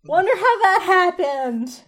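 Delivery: light, bright-eyed imitation; chirpy Geraldine voice. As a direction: play her cheerfully oblivious. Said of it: "and so she's like".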